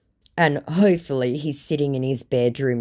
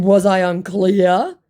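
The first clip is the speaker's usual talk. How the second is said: slow sarcastic put-down; 6 semitones higher, 7 dB louder, slower than usual. Retold or imitated. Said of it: "I said".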